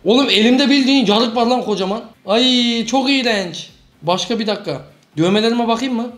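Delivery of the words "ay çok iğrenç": ew. Real, not acted. Disgusted by scar.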